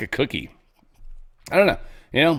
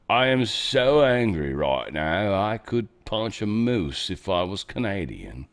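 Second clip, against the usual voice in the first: mock calm Brit; 3 semitones lower, slower than usual. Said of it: "That's how they would say it".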